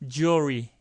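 jewelry as "joo-ree", the L barely there. Shown as a demonstration. Teacher shows the L failing to come out in jewelry, reduced. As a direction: let the L in "jewelry" vanish. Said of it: "L 발음이 잘 안 돼요".

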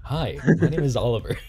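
Oliver impression. Streamer mimicking co-player's introduction to tease him, mock impression. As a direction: mimic your friend introducing himself. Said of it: "That's my Oliver".

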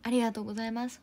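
usual speaking voice

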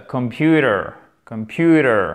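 Computer with the t almost a d, falling after PU; t softened to d. Shown as a demonstration. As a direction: soften the t in Computer into a quick tap. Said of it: "il va presque devenir un de".

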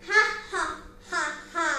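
loud, deliberate acted lion laugh; big staged belly laugh; roaring laughter. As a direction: belt out four separate mock ha-has. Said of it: "The lion roared in laughter".

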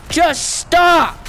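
frustrated shout. Real, not acted. Yelling at the game.

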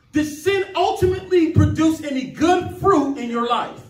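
impassioned pulpit voice; fervent preaching. Real, not acted. Preaching with full fervour.

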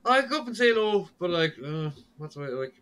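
high, loud eager voice; suddenly eager and hopeful; excited inner thought. Retold or imitated. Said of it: "and I was like".

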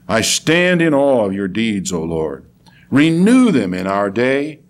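slow, weighted recitation of a prayer; prophet's plea with long pauses; solemn prayer reading. Acted. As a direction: address the Lord in measured phrases. Reads prophet's prayer aloud.

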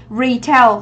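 "Retail" stressed on the first syllable, Re; teacher modelling RE-tail. Shown as a demonstration. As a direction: put the weight on the start of "Retail". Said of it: "Trọng âm một".

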